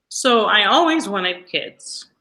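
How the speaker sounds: slow, tearful, holding back crying; real tears, words dragged out; teary. Real, not acted. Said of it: "That's got me a little teary-eyed".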